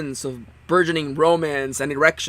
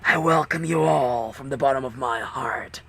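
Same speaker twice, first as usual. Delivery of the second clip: haunting voice. Acted. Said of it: "a cold, eerie voice filled the room".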